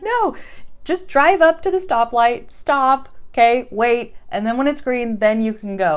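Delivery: high, loud, bossy instructions; scolding wife. Retold or imitated. Wife correcting husband's driving, high and bossy. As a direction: lay down the rules to him firmly. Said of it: "I'm like".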